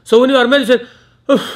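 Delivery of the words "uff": annoyed uff. Shown as a demonstration. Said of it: "like this".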